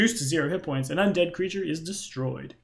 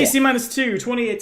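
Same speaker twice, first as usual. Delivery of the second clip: excited; 8 semitones higher, 5 dB louder than usual. Real, not acted. Big dice roll result.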